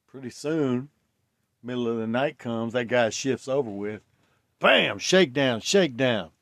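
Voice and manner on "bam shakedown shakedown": loud barked shakedown call; shouting shakedown. Retold or imitated. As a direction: yell it like a guard raiding cells. Guards raid the cells.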